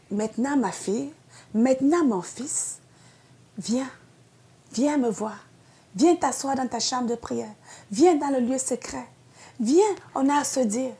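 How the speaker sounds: put-on like a loving father inviting his child; very gentle voice. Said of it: "Elle te dit de façon très douce". (voix très douce et tendre)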